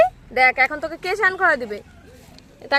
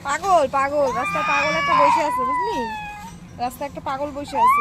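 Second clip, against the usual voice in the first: teasing call. Real, not acted. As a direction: call out teasingly so passers-by hear. Mother teasing child in the street.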